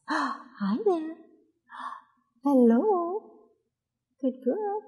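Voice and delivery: put-on high sing-song baby talk with gasps. Mother cooing to her baby mid-stretch, high baby talk.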